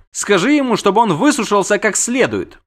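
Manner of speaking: high-voiced siren retort; dismissive siren. Siren answers the prince's refusal, dismissive.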